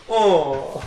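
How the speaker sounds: imitating a friend's camp elf; effeminate elf voice. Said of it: "his gay elf voice".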